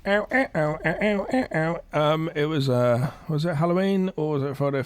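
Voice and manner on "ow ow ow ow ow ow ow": mock silly tune in ow sounds; imitated silly music. Co-host imitating the silly cop music, silly vocal tune. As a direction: sound out a comic background jingle.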